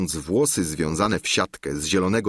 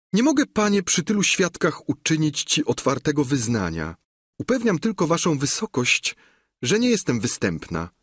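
put-on higher, timid young girl's voice; shy girl; 7 semitones higher than usual. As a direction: plead modestly before the governor. Dziewczyna tłumaczy się gubernatorowi. (nieśmiała dziewczyna, wyższym głosem)

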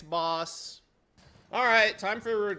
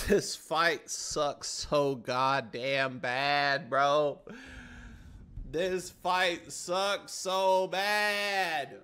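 drawn-out complaint; much slower than usual. Real, not acted. Frustrated at boss.

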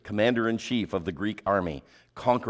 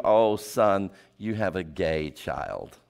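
lightly voiced elderly great grandma, drawn out; 3 semitones lower, slower than usual. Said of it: "and she says to you".

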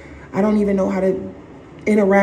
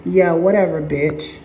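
dismissive sneer; 3 semitones lower than usual. Retold or imitated. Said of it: "Narcissist is looking at you like".

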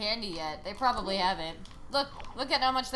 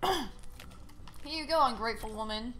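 mock sarcasm; 3 dB quieter, slower than usual. Handing gift to game wife.

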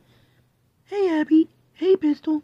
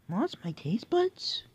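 slow whispered confession; 6 semitones lower, 9 dB quieter, slower than usual. Real, not acted. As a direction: let it fall into a slow whisper. Sad confession.

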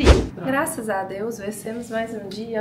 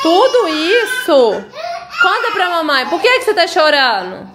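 soothing mother; 7 semitones higher, 9 dB louder than usual. Real, not acted. Mother soothing a crying baby.

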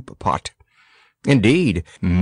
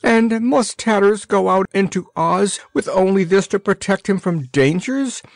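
high, plaintive wail, voice pitched way up; 8 semitones higher than usual. A narrator's reading. Missus So-and-so fretting over Tatters, high wailing. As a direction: lament that the boy goes out so poorly armed. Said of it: "wailed Missus So-and-so".

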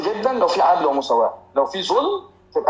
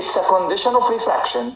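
slow dictation; much slower than usual. Shown as a demonstration. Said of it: "تقول لي".

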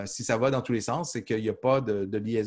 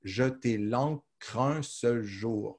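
very slow and softer, "un" singled out; slow, softer repeat; 4 dB quieter, much slower than usual. Shown as a demonstration. Teacher repeating the line more softly so the count shows. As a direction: echo the line quietly, weight on "un". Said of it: "Vous voyez comment?".

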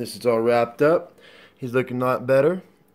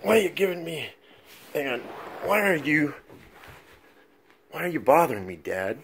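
lightly raised, whiny puppy complaint; pitched up, put-upon pet whine; grumpy dog voice; 5 semitones higher than usual. Retold or imitated. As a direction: voice the sleepy dog grumbling at dad. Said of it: "He's like".

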